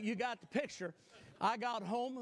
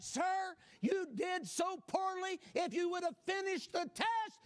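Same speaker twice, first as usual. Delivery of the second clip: mock stern clerk; 9 semitones higher than usual. Clerk scolding, voiced high.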